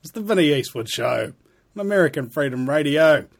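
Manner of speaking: booming racetrack announcer voice; horse race announcer. Acted. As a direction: call it like the horses are running. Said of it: "you might wonder why I'm talking like a horse announcer".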